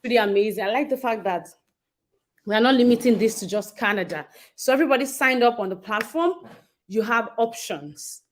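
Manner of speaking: panting after running upstairs; breathless, catching breath. Real, not acted. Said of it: "Sorry, I'm panting because I ran upstairs".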